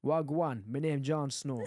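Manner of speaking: put-on Jamaican accent. Shown as a demonstration. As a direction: do a mock Jamaican greeting accent. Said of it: "Can you do Jamaican".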